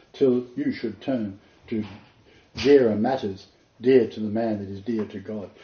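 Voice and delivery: rhythmic verse read with feeling; poem recital. Acted. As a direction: invite the listener in, line by line. Recites poem as Tennyson's invitation.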